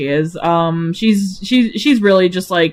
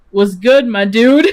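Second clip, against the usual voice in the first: laid-back slangy hello, a laugh breaking in; mock-casual dude greeting; casual bro greeting. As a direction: toss it off like greeting a buddy. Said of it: "he just says".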